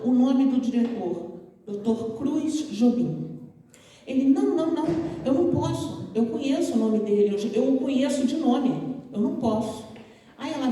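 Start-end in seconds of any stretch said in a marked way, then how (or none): 4.2-9.8 nervous refusal. Retold or imitated. The frightened student refuses to face the director, high and flustered. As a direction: back away in alarm.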